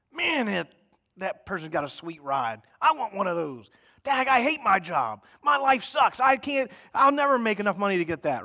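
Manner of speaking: hammed-up envious whining; whiny covetous grumble. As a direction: whine like a jealous grown-up griping about money. Mocking covetous adult grumbling.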